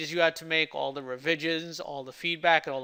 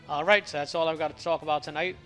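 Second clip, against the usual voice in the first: slightly slurred, sore swollen lip; slurred speech. Real, not acted. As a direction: talk carefully around a cut tongue. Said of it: "I'm slurring my words and even stuttering some".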